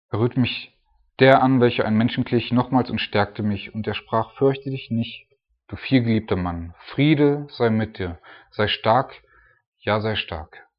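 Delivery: solemn Bible reading, slowing on the blessing; scripture reading. Acted. Preacher reading the angel's comforting words to listeners. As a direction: let the angel's comfort ring out.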